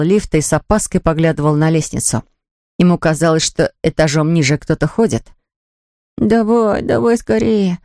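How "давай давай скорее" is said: higher-pitched, impatient urging. A narrator's reading. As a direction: hurry the lift along. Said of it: "торопил он лифт". (нетерпеливо подгоняя, голос повыше)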